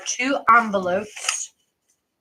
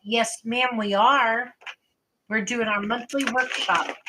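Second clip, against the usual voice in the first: talking while crunching a snack; words around a crunchy mouthful; crunching chips. Real, not acted. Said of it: "if you hear me crunching".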